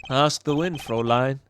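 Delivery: suave, lightly British parting line; British accent. Acted. Charmer bidding the Fräulein farewell, British accent. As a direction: part from her in a mild British accent. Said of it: "keep the British accent".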